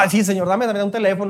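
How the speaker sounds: soft, mocking little plea; mock whiny prayer. Pastor mocks selfish prayers, softly whining. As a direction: mimic a shallow prayer for a phone. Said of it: "Y no estoy hablando".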